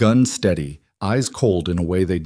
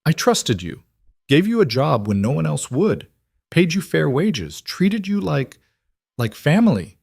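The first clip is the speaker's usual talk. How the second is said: higher, wounded reproach; hurt beneath anger; 7 semitones higher than usual. A narrator's reading. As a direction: falter with hurt under the anger. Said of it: "hurt beneath the anger".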